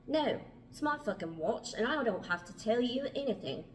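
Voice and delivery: put-on irritated refusal in an amateur English accent; Mark. Mark refuses to tell the time, testy bad English accent. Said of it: "my terrible English accent".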